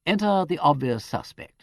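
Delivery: a light, airy throwaway on "Enter the obvious suspect"; lightly. Acted. Peter joking to the superintendent, lightly. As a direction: toss it off. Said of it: "said Peter lightly".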